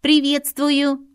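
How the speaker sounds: slow, high, loud robotic bellow; booming metallic robot. Acted. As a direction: boom the greeting like a machine. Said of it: "возопил металлический голос".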